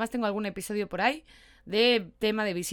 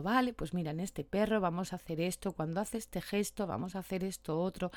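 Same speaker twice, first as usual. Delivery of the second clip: soft, unhurried instructions, much quieter; very low and calm; 2 semitones lower, 5 dB quieter than usual. Shown as a demonstration. Trainer guiding clients beside a fearful dog, quiet and calm. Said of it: "muy bajito, muy pausado".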